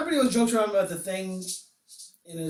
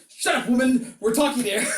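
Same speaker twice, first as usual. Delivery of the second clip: hammed-up bossy yell, higher pitch; mock yelling; 3 semitones higher, 4 dB louder than usual. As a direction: yell it as a comic put-down. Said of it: "it's just him yelling at her".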